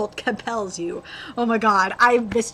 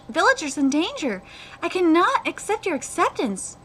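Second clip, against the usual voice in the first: earnest, lightly acted dialogue; animated story reading; manga read-aloud; 6 semitones higher than usual. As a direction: read both sides of the exchange sincerely.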